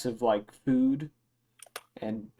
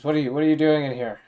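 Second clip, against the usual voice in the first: quick, slightly raised challenge; mildly confrontational; 3 semitones higher, 5 dB louder, faster than usual. Acted. Drunk guy confronts intruder in his room, mildly confrontational. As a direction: demand an explanation, louder and hurried.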